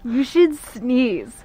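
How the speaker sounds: hippie voice. Pretend. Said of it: "the hippie voice for it?".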